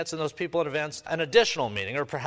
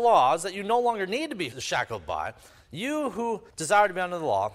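sarcastic; 5 semitones higher, 4 dB louder than usual. Retold or imitated. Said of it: "he's sarcastically saying".

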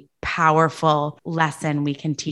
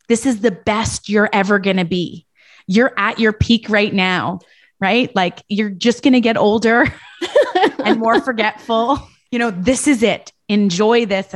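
louder and higher, laughing imitation of a friend; friend teasing; 4 semitones higher, 4 dB louder than usual. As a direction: tease like a friend, half laughing. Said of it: "she's like".

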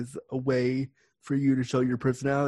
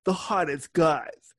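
slow, drawn-out mock ad read; phone-line ad voice; 3 semitones higher, slower than usual. Guest recalls the chat-line ad, in a slow announcer voice. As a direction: lightly imitate a sultry chat-line advert. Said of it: "I'll never forget the ad. It was like".

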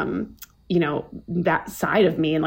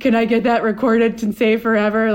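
excited gasp; 3 semitones higher than usual. Retold or imitated. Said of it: "I was like".

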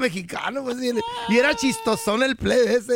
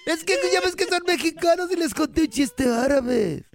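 higher put-on child voice; mock Arab kid, raised pitch; Arab boy; 4 semitones higher than usual. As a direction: explain yourself to mom like a kid. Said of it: "Y el niño dice".

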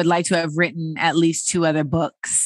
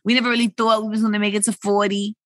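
put-on New York accent; much faster than usual. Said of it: "talking like a New Yorker".

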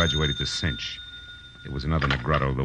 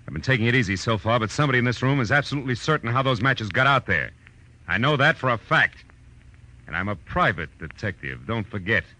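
rising threat; 4 semitones higher than usual. Acted. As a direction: lean harder on him with every sentence. Detective threatening a suspect.

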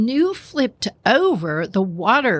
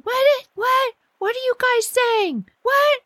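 confused panic. Retold or imitated. Julie confused in the water.

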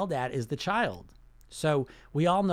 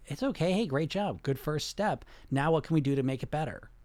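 supportive adult voice. Retold or imitated. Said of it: "this voice would come in and say".

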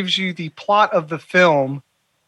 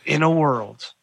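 trailer voice; 2 semitones lower, slower than usual. Retold or imitated. Cohost quoting the trailer voice guy's catchphrase, mock trailer voice. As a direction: deliver it like a trailer voice-over. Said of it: "But he doesn't say".

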